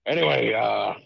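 lightly voiced groggy tycoon on the phone; a hint of a distracted rich old boss; Vince McMahon impression. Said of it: "Vinnie Mac himself on the line".

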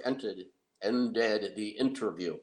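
ended said slowly and clearly; careful slow correction. Real, not acted. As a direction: articulate ended deliberately. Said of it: "Articulation, Rick".

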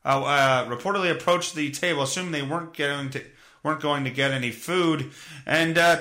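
ordinary talk, nothing marked

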